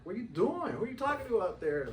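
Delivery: high, puzzled questioning; baffled neighbor. Retold or imitated. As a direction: sound like you can't believe what you're seeing. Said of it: "and she's like".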